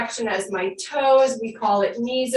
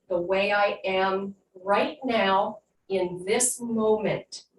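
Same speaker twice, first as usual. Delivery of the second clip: guided meditation; 2 semitones lower than usual. Acted. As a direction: ease them into calm breathing. Leads breathing and affirmations.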